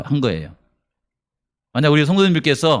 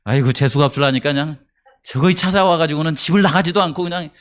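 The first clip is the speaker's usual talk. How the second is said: grumbling complaint. Pretend. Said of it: "이런 생각을 했을까요?".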